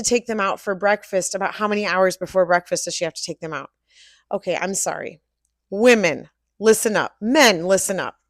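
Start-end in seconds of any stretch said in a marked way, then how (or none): 5.7-8.2 loud, slow, scolding announcement; stern lecture. Acted. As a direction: tell them off like a teacher. Lecturing customers, loud emphasis.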